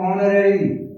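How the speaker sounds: "ऑनरेरी" begun on the O vowel; silent H. Shown as a demonstration. Teacher giving students another example, H left silent. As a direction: pronounce "ऑनरेरी" with no H at the front. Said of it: "एच silent है".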